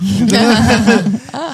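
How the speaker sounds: bursts out laughing, loud and high; a genuine loud laugh at the teasing; real laugh. Real, not acted. Teased about having a trauma.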